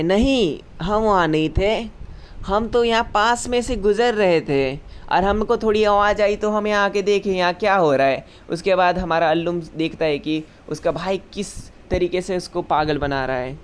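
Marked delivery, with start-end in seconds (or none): 0.0-8.2 higher, jittery mock-scared lying; nervous denial. Evil Boy nervously lies to the girl, a touch scared. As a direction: fumble the lie with a little fright. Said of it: "थोड़ा सा डर के बोलता है".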